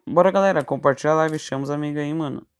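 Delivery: rally the viewers, big energy; hyped streamer call. Real, not acted. Streamer hyping up the chat. (chamando a galera animado)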